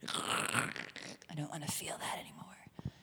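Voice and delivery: slow, hushed whisper; whispered confession. Real, not acted. Speaker admitting she avoids feelings, whispered. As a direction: let it slip out under your breath.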